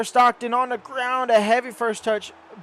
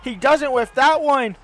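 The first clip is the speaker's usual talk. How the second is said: excited; 4 semitones higher, 5 dB louder than usual. Real, not acted. Opponent attack and chance.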